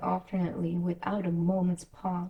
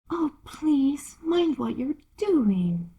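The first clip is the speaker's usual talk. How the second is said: terrified cry; 7 semitones higher, much slower than usual. Acted. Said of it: "cried Alice ... in agony of terror".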